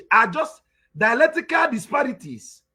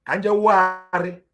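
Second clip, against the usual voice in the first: lightly drawn-out Omombala Igbo, lower; Omombala dialect; 4 semitones lower than usual. Shown as a demonstration. Teacher showing listeners the Omombala way, Omombala dialect. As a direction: say it slowly as in Omombala.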